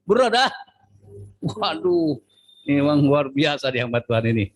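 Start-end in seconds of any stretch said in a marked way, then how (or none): 0.1-0.5 mock greeting. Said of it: "quoted again".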